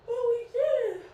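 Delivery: loud, high celebratory cry; high, ringing shout of victory; triumphant cheer. Real, not acted. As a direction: cheer the finish at the top of your voice. Celebrating finishing a hard set.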